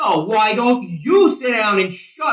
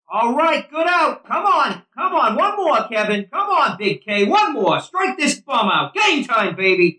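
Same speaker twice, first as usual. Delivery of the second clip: cheering; 5 semitones higher than usual. Acted. Cheering pitcher from bench.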